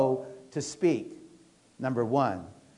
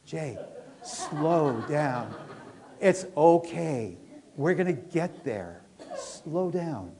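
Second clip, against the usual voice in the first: quoting wife; slower than usual. Retold or imitated. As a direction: lightly mimic a wife in the passenger seat, laughing. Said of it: "Nikki says this when she's driving".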